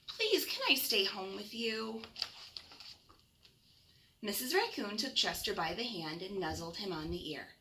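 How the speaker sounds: gentle bedtime storybook reading; reading to children. Acted. Reads picture book to children.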